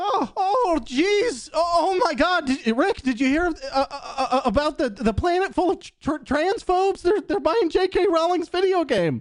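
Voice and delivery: very high-pitched, stammering delivery. Asked by the other speaker to do it right now: Morty impression. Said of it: "Just pretend to be Morty. Do it right now".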